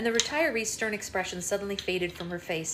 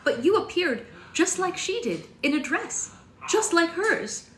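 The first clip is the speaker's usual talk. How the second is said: higher, louder, wonder-struck Missus Peters; excited old lady; 6 semitones higher, 4 dB louder than usual. A narrator's reading. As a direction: let her amazement spill out. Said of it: "Missus Peters said".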